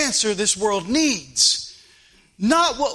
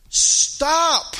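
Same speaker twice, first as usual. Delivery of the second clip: sharp stop; 7 semitones higher than usual. Real, not acted. Preacher cuts off the quote.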